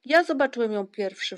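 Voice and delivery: insistent cry; calling out. A narrator's reading. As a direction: shout your claim over the others. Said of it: "wołał Ryjek".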